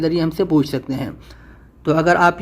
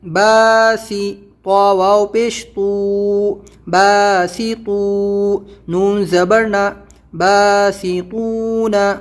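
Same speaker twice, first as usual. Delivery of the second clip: slow spelled-out recitation; much slower than usual. Shown as a demonstration. Teacher spelling out a word for students, slow and sing-song. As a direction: spell each letter and vowel slowly, chant-like.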